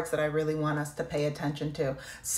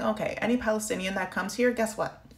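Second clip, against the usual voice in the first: mocking the government; 4 semitones higher than usual. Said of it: "they're basically saying".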